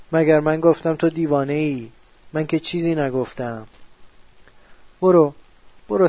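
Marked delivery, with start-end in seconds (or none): 5.0-6.1 a sudden loud "برو" to drive him off; sharp shout. Acted. To the strange figure at night, a loud shout to go. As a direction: bark the word away, loud.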